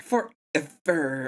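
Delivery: put-on Valley Girl voice and accent. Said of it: "You just did the Valley Girl accent".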